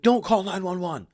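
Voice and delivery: high, pleading voice of a frightened friend; imitating panicked friend. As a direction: pitch it up like a friend begging in a panic. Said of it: "He's like".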